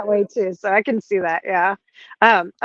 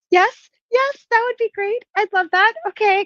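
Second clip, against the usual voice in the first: eager yes; 12 semitones higher than usual. Retold or imitated. Retelling own eager reply.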